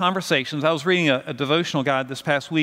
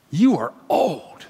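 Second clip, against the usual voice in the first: slow, teasing, with a laugh in it; a hint of a seven-year-old stating the obvious; lightly voiced niece; slower than usual. Niece tells uncle he's old.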